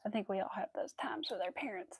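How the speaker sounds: soft whispered aside; confiding whisper. Real, not acted. Sharing a complaint about parents with viewers, whispering. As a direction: lean in and whisper it.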